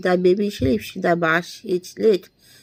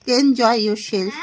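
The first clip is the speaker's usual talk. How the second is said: laughing. Shown as a demonstration. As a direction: say "Enjoy yourself" through a light laugh. Repeats phrase, second take laughing.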